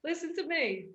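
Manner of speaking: eager, hyped-up pep talk; mock rallying cry. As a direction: play the overkeen know-it-all. Acting out eager newcomer rallying people.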